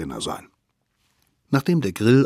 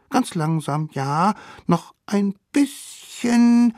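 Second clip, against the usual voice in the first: put-on much higher, cheeky kid voice; sly children plotting a trick; high scheming kid voice; little wild kids; 4 dB louder than usual. Kids guiding mammoth.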